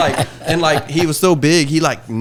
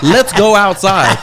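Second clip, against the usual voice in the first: retold challenge; 5 semitones higher, 9 dB louder, slower than usual. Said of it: "I was like".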